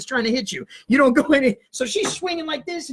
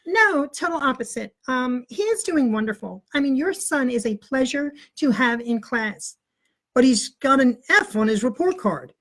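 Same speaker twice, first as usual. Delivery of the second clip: teacher voice. Retold or imitated. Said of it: "act like Missus Ball".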